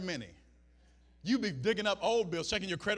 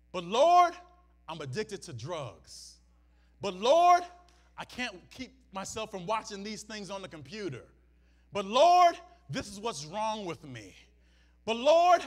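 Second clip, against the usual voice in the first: "Lord" shouted much louder, rising; pleading cry; 7 dB louder than usual. Retold or imitated. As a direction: wail "But Lord" as a plea. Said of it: "excuse ourselves and say this".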